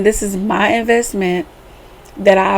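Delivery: ordinary delivery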